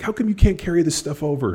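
high-pitched mock exasperation; frustrated parent. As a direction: imitate a parent's pleading complaint. Frustrated parent's inner complaint.

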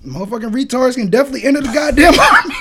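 fast, laughing and yelling; laughing shout. Real, not acted. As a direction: blurt it out cracking up. Laughing outburst.

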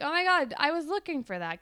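a lightly voiced eager teen girl; excited girl. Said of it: "And you're like".

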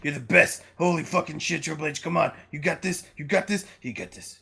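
soft acted self-encouragement, fading away; quiet mock mantra, trailing off; hushed pep talk. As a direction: psych yourself up under your breath. Voicing Triple H's mirror pep talk.

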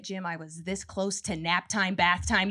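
a tired mom snapping at her husband; mock snapping mom.

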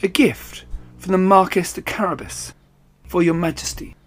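high, bowing courtly tone; courtly cat. Acted. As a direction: present the gift with a flourish. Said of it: "he bowed and he said".

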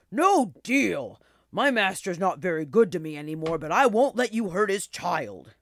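put-on loud, indignant old dog; gasped protest. A narrator's reading. Old dog protecting his master's child, gasped protest. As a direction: burst out in protective refusal. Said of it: "the old dog gasped".

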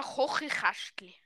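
'Kochikastli' with throaty 'ch' for each K; 'Kochikastli' said as 'Chochichäschtli'; Swiss German tongue-twister. Shown as a demonstration. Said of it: "wo fast niemand aussprechen kann".

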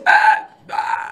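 voiceless strangled gasp, imitated; hammed-up airless choking; mimed choking wheeze. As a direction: act out gasping for air. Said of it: "eu sendo carregado por ele, assim".

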